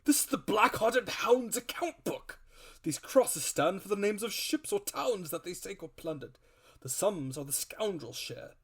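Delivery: the squire holding forth, worked up; excitable squire. Acted. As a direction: squire voice, growing indignant then grave. Squire explains the account book.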